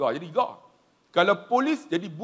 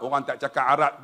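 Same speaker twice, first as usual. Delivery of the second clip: shopkeeper voice; 5 semitones lower than usual. Retold or imitated. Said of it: "Dia kata apa?".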